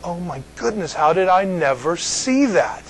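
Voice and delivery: retold amazement. Pastor recalls reading the book on salvation, amazed. Retells his astonishment at the book.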